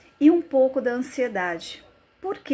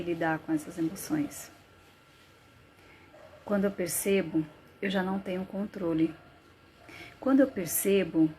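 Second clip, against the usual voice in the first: subdued, confessional monologue with long pauses; anguished dramatic monologue; 4 dB quieter than usual. Acted. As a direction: confess the panic quietly, thought by thought. Dramatized first-person monologue on panic. (monólogo angustiado, em tom contido)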